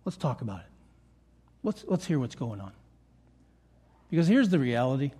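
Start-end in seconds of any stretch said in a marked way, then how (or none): 0.0-2.7 low, soft invitation to talk; hushed, lower-pitched acted invitation; gentle invitation. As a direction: quietly voice someone offering to listen. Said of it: "sit down with someone and say".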